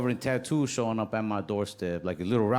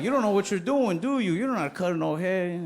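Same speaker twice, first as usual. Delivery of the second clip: higher, louder mock scolding; 4 semitones higher, 3 dB louder than usual. Kid barber scolding a grown customer, mock angry. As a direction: scold him like a boss. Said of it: "I'd be like".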